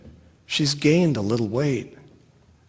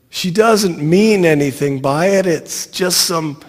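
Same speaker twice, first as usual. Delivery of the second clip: yelling; 4 semitones higher, 3 dB louder than usual. Retold or imitated. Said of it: "I'm yelling".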